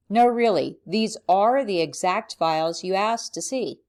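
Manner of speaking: insist, punching the word "are"; stress on ARE. Shown as a demonstration. Insisting to someone about the exact files they asked for, stress on "are". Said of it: "in italics to emphasize it".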